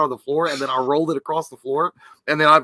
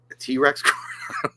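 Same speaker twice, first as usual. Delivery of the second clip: whisper; 5 dB quieter, much slower than usual. Real, not acted. Joking aside.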